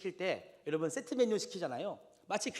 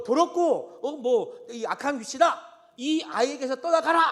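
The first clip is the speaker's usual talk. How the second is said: much higher, louder stern command; commanding exorcism; 7 semitones higher, 10 dB louder than usual. Retold or imitated. Jesus commanding the unclean spirit, loud stern order. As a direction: cast the demon out with authority. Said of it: "이렇게 예수님께서 명령하시고 내쫓으셨잖아요".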